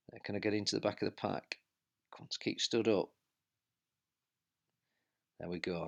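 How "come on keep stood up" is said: self-urging shout. Real, not acted. Urging himself up the climb.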